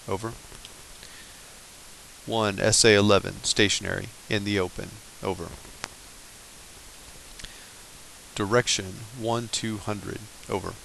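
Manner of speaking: steady radio operator reading a fire mission; calm radio fire call. Shown as a demonstration. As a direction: read it like a calm call over the net. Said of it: "So the mission looks just like this".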